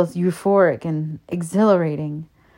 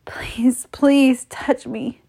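high, slow, airy begging; whispered plea; 7 semitones higher, much slower than usual. A narrator's reading. Narrator voices woman begging for touch, whispered plea. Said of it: "I whisper".

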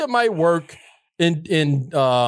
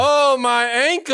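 slow, drawn-out fake pained moan; hammed-up whimper; mock whine; 6 semitones higher, much slower than usual. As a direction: ham up the injury to get sympathy. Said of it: "ran that game on her".

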